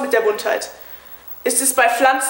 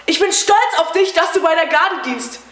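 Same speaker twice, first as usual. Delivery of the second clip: higher, lightly voiced wife's proud words; quoting his wife; 5 semitones higher than usual. Husband mimics his wife's old praise, mildly mocking and higher. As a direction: echo her pride back at her, a touch mocking. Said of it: "Und du hast gesagt".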